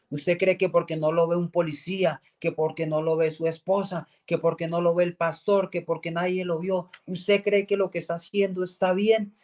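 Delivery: voz de predicador, más aguda y firme; predicador que confronta. Retold or imitated. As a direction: sermonea señalando al pecador. Predicador confronta con fuerza. (tono de predicador que reprende)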